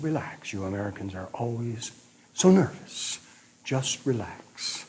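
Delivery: soft, slow and soothing; calm a jittery stranger gently; reassuring calm. Retold or imitated. German man calming nervous American.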